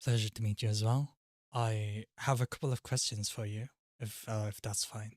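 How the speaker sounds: understated British character voice; British accent. Acted. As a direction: put on a polite British accent. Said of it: "we're putting on the British voice".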